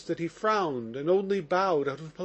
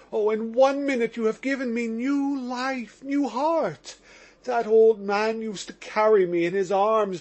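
put-on overwrought young man, pitched up and pushing louder; agitated Mitya; 5 semitones higher, 4 dB louder than usual. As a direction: plead with the men, voice raised and fervent. Mitya pleading to the officials.

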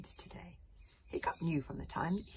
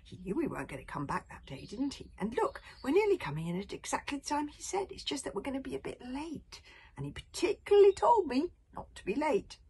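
worried Hiccup; 6 semitones higher, 5 dB louder than usual. A narrator's reading.

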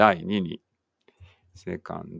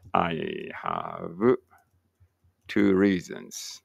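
slow dictation; much slower than usual. Shown as a demonstration. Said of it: "いつものやつね。".

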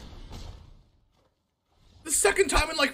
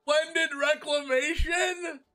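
laughing; slower than usual. Real, not acted. Laughing at card drawn.

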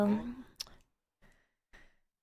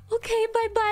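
sing-song goodbye; 10 semitones higher than usual. Retold or imitated. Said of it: "I was like".

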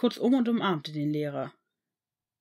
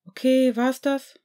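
annoyed; 5 semitones higher, 6 dB louder, slower than usual. A narrator's reading. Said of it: "schob Harry entnervt".

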